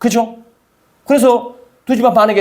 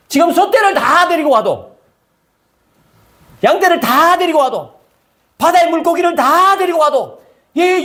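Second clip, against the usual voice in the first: exasperated protest; 5 semitones higher than usual. Retold or imitated. Moses arguing with God, higher incredulous protest. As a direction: argue back in disbelief. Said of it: "이러니까 모세가 또".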